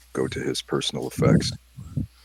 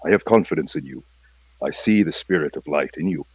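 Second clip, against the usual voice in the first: solemn Singh; 3 semitones higher, 4 dB louder than usual. Acted. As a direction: hand him courage like a wise teacher.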